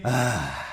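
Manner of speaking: "ah" solto na expiração; suspiro de aquecimento. Shown as a demonstration. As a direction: inspire fundo e solte um "ah". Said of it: "Respiração profunda e inspirem". (suspiro sonoro, descendente)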